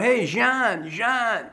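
yelling for the puck; calling out. Retold or imitated. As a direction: shout his name to get the pass. Calling to coach for a pass.

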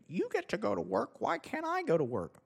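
high, shrill mocking whine; mock protester yell. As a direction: parody an entitled woman yelling at a nurse. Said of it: "watched this woman yell at this nurse".

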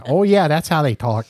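a hint of Midwestern parody, Wisconsin style; mock Wisconsin accent. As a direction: playfully imitate a Wisconsin accent. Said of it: "Maybe the people in Wisconsin are going".

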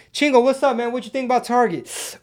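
imitating a fan. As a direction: play a chatty fan pressing a question. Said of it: "That's what I'm gonna start doing".

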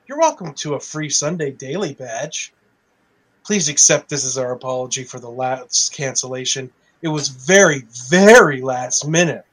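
mock-cheerful official statement; sarcastic reading. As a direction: read it dripping with sarcasm. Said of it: "I don't know if I have enough sarcasm in my voice".

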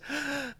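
sharp high intake of breath; demo gasp. Shown as a demonstration. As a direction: suck the air in fast, startled. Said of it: "that's an inhalation".

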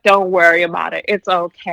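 lightly acted, low comforting voice; retold reassurance. Singer comforting a crying fan, retold low reassurance. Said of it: "he makes it even better".

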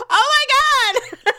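high, drawn-out slow gasp of disbelief; stunned oh my God. Retold or imitated. Daryl seeing her drink the hand water, slow high disbelief. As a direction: stretch it out, aghast. Daryl reacting in retold scene.

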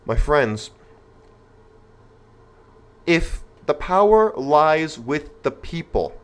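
settling down after getting too excited. Real, not acted. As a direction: reset and lay out the logic slowly. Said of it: "let me pause for a second here".

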